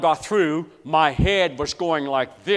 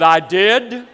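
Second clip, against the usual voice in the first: high, loud, laughing "I did?"; a student hearing he passed, delighted disbelief; stunned disbelief; 5 semitones higher, 7 dB louder than usual. Retold or imitated. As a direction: squeal it in happy shock. Astonished at a B.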